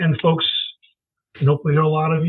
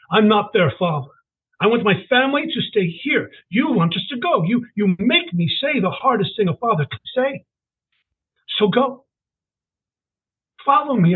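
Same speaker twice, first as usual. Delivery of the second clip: a hint of a pained father; 4 semitones higher than usual. Father arguing at train station.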